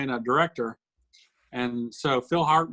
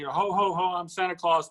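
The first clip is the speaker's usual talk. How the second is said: Santa voice; 4 semitones higher than usual. Retold or imitated.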